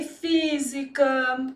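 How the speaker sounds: devagar, sílabas alongadas; exemplo ditado. Shown as a demonstration. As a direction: estique a palavra como quem escreve. Dita exemplos ao escrever. (ditado lento de professora)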